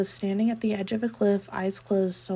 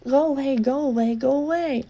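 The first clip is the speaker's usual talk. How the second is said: panicked shouting; 4 semitones higher, 3 dB louder than usual. Acted.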